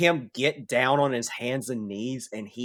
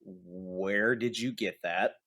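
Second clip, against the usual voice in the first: panicked; 5 semitones lower, 6 dB quieter, slower than usual. Acted. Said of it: "You see him panic a little bit".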